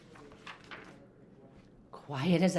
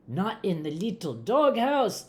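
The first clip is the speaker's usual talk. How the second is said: high-pitched storybook disbelief; exclaiming; 4 semitones higher, 4 dB louder than usual. A narrator's reading. Kitten hears the bad news from his amigo, exclaiming. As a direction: exclaim it as an alarmed question. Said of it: "exclaimed Scapito".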